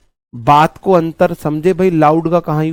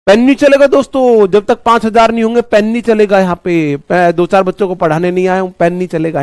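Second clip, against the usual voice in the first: noisy shouting; 3 semitones higher than usual. Shown as a demonstration. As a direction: make a racket to an imaginary crowd, easing off. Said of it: "ये loudly है". (शोर मचाते हुए ऊँची आवाज़)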